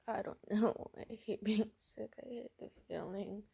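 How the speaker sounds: mildly whiny sick voice; Robin. Acted. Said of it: "And he's like".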